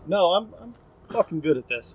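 acted self-assurance, slightly emphatic; very sure of yourself. Imagined director answering his own doubts, acted confidence. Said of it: "very sure of yourself".

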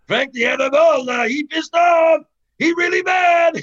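high, loud, hammed-up panicky teammate; high broken-English shout of alarm; imitating a rattled teammate. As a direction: yell it like a spooked teammate warning you. Teammate voiced, angry about Frank.

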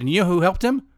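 retold yelled question; imitated screaming. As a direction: act out a friend's angry demand. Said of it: "he's screaming at this point".

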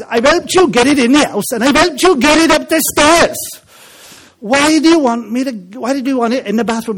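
put-on high, loud Welsh accent storytelling. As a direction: push the Welsh lilt up high. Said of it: "I'll go back to the Welsh accent".

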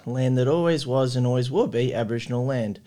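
measured, formal acknowledgement of country in a steady reading voice. Acted. Host opening the podcast, reading a formal acknowledgement of country. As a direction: read it like an official opening statement.

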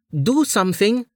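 hissed through clenched teeth; urgent hiss, mouth barely open; whispered fury. A narrator's reading. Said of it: "Amelia hissed through her teeth".

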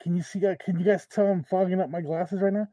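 talking through a rubber mask; muffled voice under a mask; inside a rubber mask. Real, not acted. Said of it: "It's pretty hot in this mask".

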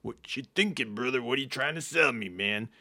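lightly voiced wrestler impression; a hint of wrestler swagger; Macho Man. Stringing a telemarketer along, lightly voiced Macho Man. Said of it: "And I was Macho Man".

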